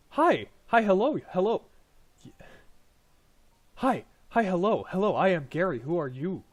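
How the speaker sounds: high, loud goblin chatter; eager little goblin greeting a stranger; excited goblin Gary. Acted.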